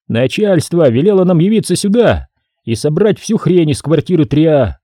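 a businesslike woman explaining the job; woman worker. Acted. Sophie voiced by narrator.

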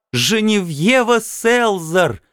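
high, slow female voice, tearful; tearful woman. A narrator's reading. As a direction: say her name through tears. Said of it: "Она плакала в трубку".

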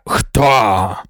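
called out. A narrator's reading. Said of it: "гукнув Лето".

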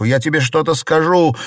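high, loud calling out; calling after. A narrator's reading. Xiren calling after Bao Yu. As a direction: call after him. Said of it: "закричала Сижень".

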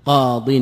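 firm final form; emphatic demo. Shown as a demonstration. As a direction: land قاض as the answer. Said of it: "قلت حينئذ ماذا؟".

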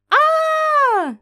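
sudden high piercing scream; startled scream. Acted. Heroine screams as the creature leaps at her face, piercing shriek.

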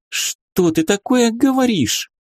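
slow, high and scandalised; indignant. A narrator's reading. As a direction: bristle with indignation. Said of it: "возмутилась Люсия".

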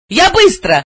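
high quick call; quick shout. A narrator's reading. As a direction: call out high as she runs. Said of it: "крикнув".

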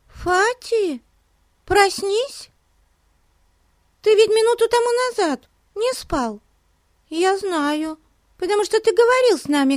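put-on very high, eager young girl; a small girl pleading urgently; little girl voice. A narrator's reading. Betsy pokes sleeping Fatty.

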